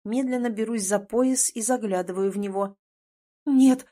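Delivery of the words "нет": loud, high shocked outcry; cry out. A narrator's reading. Heroine crying out at her changed body, shocked. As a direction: blurt it in disbelief. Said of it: "вскрикиваю".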